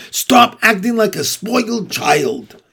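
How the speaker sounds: high, exasperated scolding yell; angry scream. A narrator's reading. Wilbur scolds the lazing rat, screaming high. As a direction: yell a reprimand. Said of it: "screamed Wilbur".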